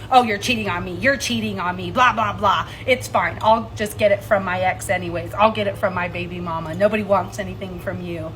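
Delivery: mildly mocking quote of an accuser; mock accusing. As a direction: imitate a partner rattling off accusations. Retells partner's repeated accusations.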